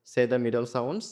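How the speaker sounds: very slow, each word apart; slow reading. Shown as a demonstration. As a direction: read the instruction slowly for pupils. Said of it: "teacher reads instruction aloud". (খুব ধীরে পড়া)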